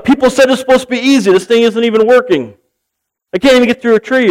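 a hammed-up frustrated thought; man griping about a chainsaw that won't cut; exasperated inner voice. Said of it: "he's thinking of the chainsaw".

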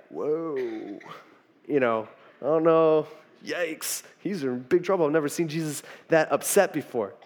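soft, cowed muttering among onlookers; awed aside. Acted. Disciples watching Peter get rebuked, hushed and uneasy. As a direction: keep it hushed, as if trouble is near.

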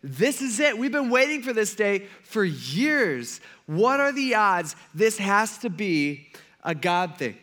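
high, drawn-out eagerness; acted excited persuasion; all excited. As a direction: press the point with mounting thrill. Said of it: "And they're all excited".

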